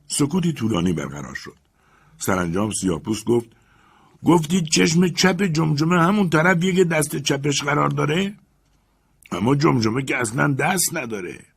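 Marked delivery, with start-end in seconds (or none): 4.2-11.4 puzzled servant. Acted. Jupiter objects.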